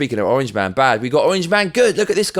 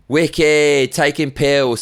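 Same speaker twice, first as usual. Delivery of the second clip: rowdy chav; 2 semitones higher, 5 dB louder, much slower than usual. Acted. Acting out his mate's chav picture.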